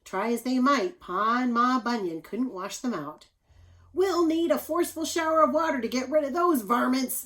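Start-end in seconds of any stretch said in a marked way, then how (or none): 3.9-7.2 much higher and louder, emphatic; Ma declaring. Acted. Ma Bunyan deciding to wash bears out of hair, loud and firm. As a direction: announce it like a no-nonsense mother. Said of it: "Ma Bunyan declared".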